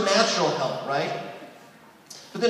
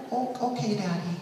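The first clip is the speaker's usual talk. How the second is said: put-on little girl; 8 dB quieter than usual. Child answering father.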